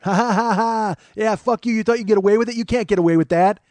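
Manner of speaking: loud, high taunting with psychotic laughter; malicious mock cackling. Woman taunts the men in the cop car, maniacal gloating. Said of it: "maliciously laughing, but, like, really genuinely psychotically laughing".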